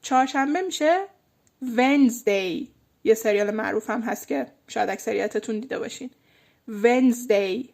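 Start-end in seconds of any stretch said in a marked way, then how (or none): 1.6-2.7 Wednesday as Wenzday, slow, no d; silent d in Wednesday. Shown as a demonstration. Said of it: "اون د خونده نمیشه". 6.7-7.7 Wednesday as Wenzday, slow, no d; silent d in Wednesday. Shown as a demonstration. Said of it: "اون د خونده نمیشه".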